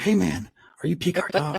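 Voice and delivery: high, eager retold greeting; super excited. Excited fan popping up to greet the podcasters, super excited. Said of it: "he was just super excited".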